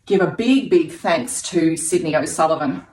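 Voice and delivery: breathless with excitement; out of breath. Real, not acted. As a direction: talk between quick breaths. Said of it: "Oh, look, I'm out of breath".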